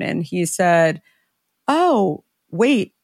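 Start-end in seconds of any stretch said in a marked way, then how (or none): 1.7-2.9 higher, fast, imitating a baffled clerk; mock-baffled clerk, quick and high; startled question. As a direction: rattle it off like a confused store guy. Store guy's startled reaction retold.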